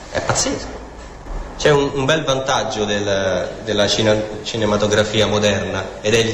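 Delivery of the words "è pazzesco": breathy whispered marvel, half to himself; whispered aside. Real, not acted. Preacher to congregation, whispering in amazement. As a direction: hush it like a secret wonder.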